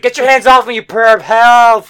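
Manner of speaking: loud, high-pitched mock yell; indignant cry for help. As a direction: shout it like an outraged carjacking victim, stretching the end. Voicing woman being carjacked.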